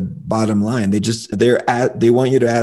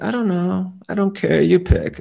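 much higher mock girlfriend voice, noncommittal; imitating girlfriend; 9 semitones higher than usual. Girlfriend dodging the dinner choice, high mock voice. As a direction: play the indecisive girlfriend in a high voice. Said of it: "And she's like".

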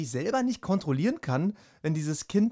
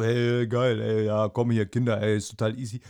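lower, louder laid-back bro voice; cool guy with buddies; 5 semitones lower, 4 dB louder than usual. Retold or imitated. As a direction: play it cool and casual for the mates. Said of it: "auf Arbeit mit den Kumpels immer noch so".

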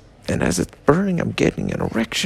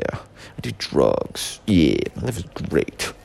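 much lower, sullen mumbling voice; moody burn victim; 10 semitones lower than usual. Acted. Comic playing a gloomy hooded loner, low sullen voice.

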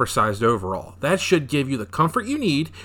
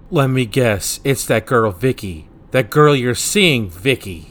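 pointed, louder jab at a friend; accusing; 6 dB louder, slower than usual. Acted. Friend guesses it's that girl Vicky, accusingly. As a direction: land each guess with mild exasperation.

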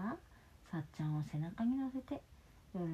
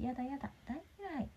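put-on flustered child; 7 semitones higher, 4 dB quieter than usual. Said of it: "と、さっちゃんは大慌て".

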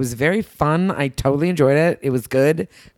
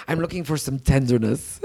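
lightly mocked French accent, lower, with laughter in it; amused imitation of a French accent; imitated French accent; 4 semitones lower, 3 dB quieter than usual. Woman quoting her French date asking for tenderness, imitated French accent. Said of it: "it's so French".

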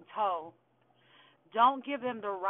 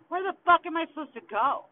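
exasperated; 7 semitones higher, 5 dB louder than usual. Real, not acted. Eviction panic in rant.

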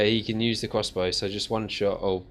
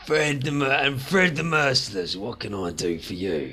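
mildly amused, smirking; a hint of laughter under the words; smirking amusement; 4 semitones higher than usual. A smirking boss greets the stranger, mildly amused. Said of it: "he's laughing whilst he's saying this".

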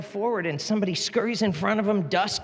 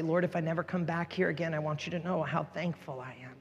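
heartfelt prayer; 5 dB quieter than usual. Real, not acted. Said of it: "I say".

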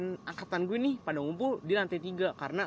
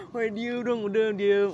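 friend yelling at the class to settle down; friend shushing while laughing; 5 semitones higher, 6 dB louder, slower than usual. Retold or imitated. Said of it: "temen gue".

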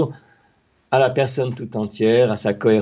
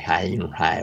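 open vocal hi sounds; 7 semitones lower, 5 dB quieter than usual. Shown as a demonstration. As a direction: demo of open throat hi. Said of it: "ce que font justement très bien les Américains".

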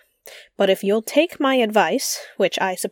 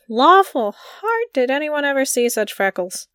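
shocked; 4 semitones higher than usual. Acted. Lynde shocked at Anne's looks.

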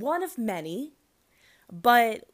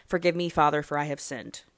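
mock confession; 3 semitones lower, faster than usual. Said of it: "I didn't mean to say G D".

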